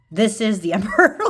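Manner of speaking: "This" hit harder, rising tune, a laugh before "emperor"; laughing emphasis. Real, not acted.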